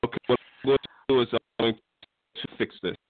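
fast words on a choppy line; phone breaking up. Real, not acted. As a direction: voice cutting in and out. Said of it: "Your phone is going in and out on us".

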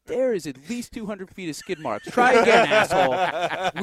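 rising into a roar at the liar; angry dad. Retold or imitated. Dad busting into the room about skid marks, furious shout. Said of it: "He's like".

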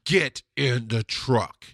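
slow, heavy order, stressing get; firm command. Retold or imitated. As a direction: bark it out slowly, no arguing. Confronting aggressive man, ordering.

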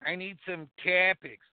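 lightly voiced Diener, barely changed; a hint of Diener asking for topics; Diener impression. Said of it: "This is my best Diener impression".

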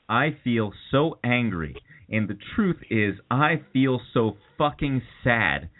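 intense, brooding dramatic reading; dramatic monologue. Acted. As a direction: deliver it like a stage monologue.

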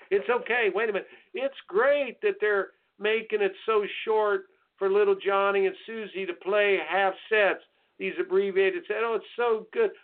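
mock the rule changes with fake delight; sarcastic gushing. Sarcastic mock praise of short scoring.

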